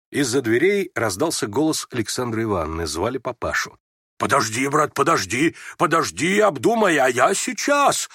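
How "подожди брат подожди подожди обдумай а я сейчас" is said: всё выше и громче, торопливо; спешит на зов дочери; второпях. A narrator's reading. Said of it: "проговорил он второпях и почти испуганно". (торопливо и почти испуганно)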